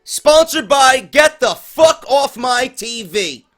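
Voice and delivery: hammed-up TV sponsor read; mock announcer intro. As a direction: announce it like a sarcastic ring announcer.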